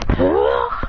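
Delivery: rough, breathy burst; power-up roar. Acted. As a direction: exhale a forceful attack cry. Acted display of true power.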